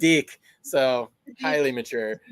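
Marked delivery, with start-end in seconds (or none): 0.0-0.4 "deck" said as "deek"; long ee in "deck"; New Zealand DECK. Retold or imitated. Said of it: "They say deck differently".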